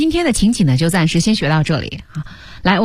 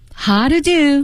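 pitch climbs then drops on "how to do"; 8 semitones higher than usual. Intonation lesson on a short phrase: rise then fall on "how to do". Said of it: "先声后降".

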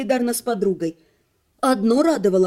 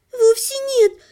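strained little babble at very high pitch; 12 semitones higher than usual. Scolded by the magister, the half-elf babbling with a strained smile. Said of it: "натянуто улыбаясь, пролепетала полуэльфийка".

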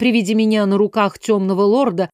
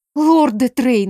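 indignant, protesting hiss; 4 semitones higher than usual. Reading first-person fiction, the narrator protests as a lord kicks open the bedroom door: hissed. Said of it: "прошипела я".

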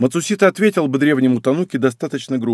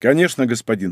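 plain reading voice

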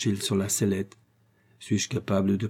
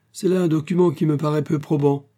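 curt, dry, much higher pitch; 6 semitones higher, 4 dB louder than usual. A man replies to a woman about a letter she means to show, curt and dry. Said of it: "reprit sèchement M".

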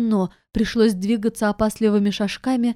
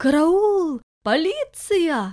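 high-pitched screaming outcry; 7 semitones higher than usual. Narrator reads a woman's cry as bandits eye her jewels, screaming. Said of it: "закричала".

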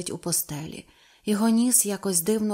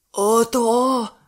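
loud, sudden crying out, exclaiming; 3 semitones higher, 8 dB louder than usual. A man drops his fishing rod and points at the water, crying out. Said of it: "скрикнув він".

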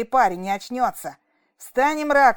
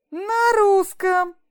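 admiring, high, delighted cry; 9 semitones higher than usual. A man leans over the prisoner, exclaiming in delight. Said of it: "восхитился мутноглазый Эуджен".

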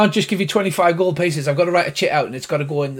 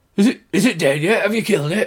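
gravelly put-on character voice, pitched much higher; 4 semitones higher than usual. Game master voices a man hiding under the bed behind a door, gravelly voice. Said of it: "He says he's hiding under the bed until the dragon's gone. ... A gravelly voice comes from behind the door".

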